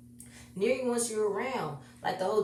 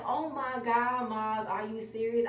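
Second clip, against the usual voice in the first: moved disbelief; 5 semitones higher than usual. Retold or imitated. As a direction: gasp it out, overwhelmed. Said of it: "I was like".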